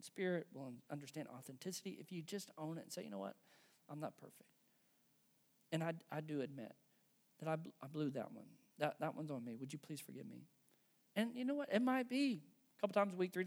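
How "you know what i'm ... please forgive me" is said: 낮고 부드럽게 진심으로 사과하듯; soft sincere apology. Retold or imitated.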